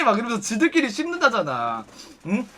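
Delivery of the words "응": ordinary talk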